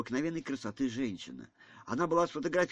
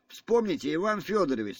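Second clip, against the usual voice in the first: a touch of agitated, higher and louder pleading; anxious hesitation; 6 semitones higher, 4 dB louder than usual. A narrator's reading. Ганя reminds the general of his free choice, anxiously. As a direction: remind him with mild, raised-pitch worry. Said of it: "сказал тревожливый, колеблясь Ганя".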